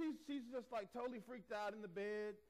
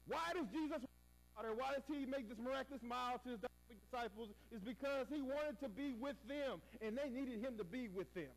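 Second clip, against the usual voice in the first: raised, driving pulpit emphasis; fervent preaching; 4 semitones higher than usual. Acted. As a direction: press the point home to the congregation.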